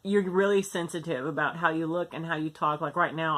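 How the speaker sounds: denture plate on the roof of mouth; talking funny with dentures. Real, not acted. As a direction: speak around a new denture plate. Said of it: "I know I'm talking funny".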